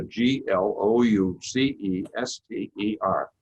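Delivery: letters spelled out slowly one by one. Shown as a demonstration. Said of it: "I'm saying Gloucester".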